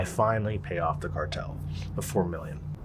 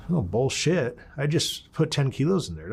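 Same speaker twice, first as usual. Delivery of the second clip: indignant; 5 semitones higher than usual. Retold or imitated. Disputes report of missing cocaine.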